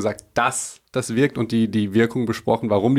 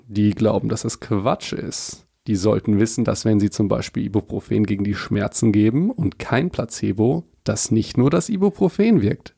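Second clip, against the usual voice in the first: documentary voice. Acted. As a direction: narrate it like a nature film. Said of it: "mit der Dokumentationsstimme".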